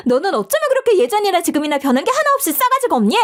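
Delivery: high, fast angry tirade; furious rant. Acted. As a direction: fire it off at her. Heated quarrel.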